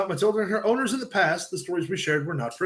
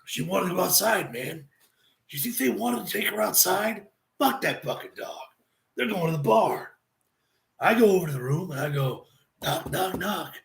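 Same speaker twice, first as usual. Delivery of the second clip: Jake voice. Retold or imitated. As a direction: tell it as Jake the Snake would. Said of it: "At least the Jake voice".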